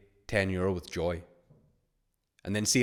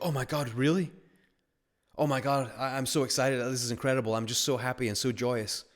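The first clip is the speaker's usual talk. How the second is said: high-pitched, overjoyed disbelief, acted; thrilled waitress; 4 semitones higher than usual. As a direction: gush like an imitated waitress handed a big tip. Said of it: "watch her face".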